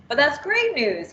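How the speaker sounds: excited. Acted. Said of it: "he says".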